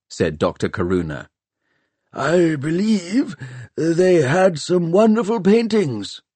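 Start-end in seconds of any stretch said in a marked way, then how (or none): 2.1-6.2 higher, slow wistful scholar; dreamy older man, lightly voiced; Nancarrow. A narrator's reading. Nancarrow agrees with the group, slow and higher. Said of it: "agreed Nancarrow".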